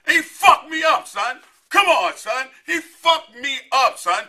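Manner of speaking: high, loud, drawn-out comic yell; mock outraged shout. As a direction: yell it like you can't believe he beat you. Shouting about getting beaten.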